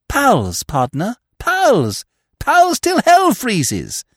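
high, loud melodramatic pledge; deeply moved cry. A narrator's reading. Freddy pledges loyalty to Eve, deeply moved cry. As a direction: build to a slow, ringing vow. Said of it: "deeply moved".

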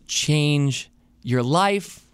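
slowly drawn-out mock slogan; mocking infomercial line. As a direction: drag out change your life mockingly.

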